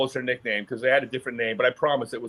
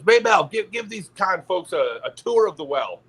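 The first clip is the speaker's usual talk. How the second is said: put-on old man's call; 4 semitones higher than usual. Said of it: "he goes".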